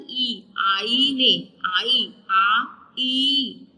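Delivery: stretched ई in आईने; drawn-out hamza sound. Shown as a demonstration. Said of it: "हमजा की sound है ई".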